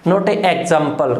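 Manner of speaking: a slow, deliberate "not a example"; wrong form. Shown as a demonstration. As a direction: show the wrong version slowly. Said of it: "गलत हो जाएगा". (गलत रूप धीरे से)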